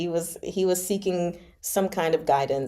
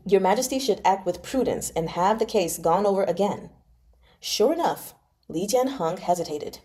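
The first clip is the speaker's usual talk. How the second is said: even, measured audiobook reading; story narration; faster than usual. A narrator's reading. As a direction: read the novel aloud to listeners. Resumes reading the novel.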